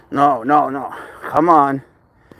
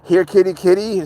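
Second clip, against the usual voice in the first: sing-song, higher call to a cat; mock cat call; 4 semitones higher than usual. Mocking the advice to call the cat sing-song. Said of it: "You think I didn't try that?".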